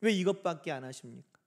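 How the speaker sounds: low-pitched muted complaint; acted discontent, held down; subdued grumble. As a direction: grumble it under restraint. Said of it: "불평은요".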